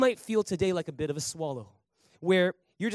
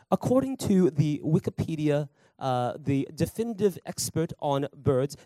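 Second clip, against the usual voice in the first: lightly done nature documentary narrator; a hint of a wildlife film voice-over; playful mock documentary read, barely off his own voice; National Geographic voice. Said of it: "my National Geographic voice".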